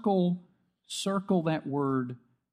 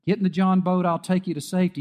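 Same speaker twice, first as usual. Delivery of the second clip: boatman calling out; 4 semitones higher than usual. Retold or imitated. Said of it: "a guy came by ... and said".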